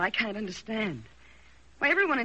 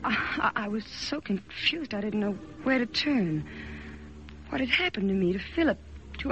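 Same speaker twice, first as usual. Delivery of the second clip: story narration. A narrator's reading. Narrates her own story.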